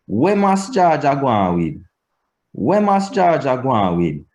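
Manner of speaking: peak on MUST and slide down; Patois question intonation. Shown as a demonstration. Teacher giving question-word examples, early-peak Patois intonation. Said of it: "the rise in pitch affected".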